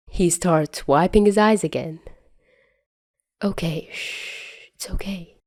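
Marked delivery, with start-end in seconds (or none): 3.4-5.4 soft whispered shush; quiet shushing. Acted. Tony calming crying Peter, soft whisper. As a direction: hush him gently. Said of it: "Tony shushed him quietly".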